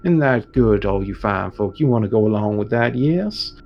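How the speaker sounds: slow, rousing priest's call to the hunt; lightly voiced Father Eli stirring up the villagers; preacher rallying the crowd. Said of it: "came along with this and goes".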